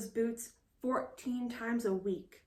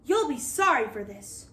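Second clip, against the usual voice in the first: a lightly raised defiant cry; 4 semitones higher, 4 dB louder than usual. Acted. Captured girl warning the pirates, mild defiant cry. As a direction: warn them with a small cry. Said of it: "cried Molly".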